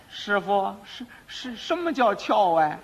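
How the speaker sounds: put-on hesitant, stammering young pupil; puzzled apprentice. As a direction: ask slowly, tripping over the first words. Bewildered apprentice asks master.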